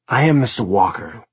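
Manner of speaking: cold, hollow creature voice; eerie servant creature voice. Acted. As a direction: speak like an undead servant. Creepy subjugate introduces himself.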